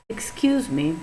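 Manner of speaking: "excuse me," said indignantly, offended. Shown as a demonstration. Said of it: "said indignantly".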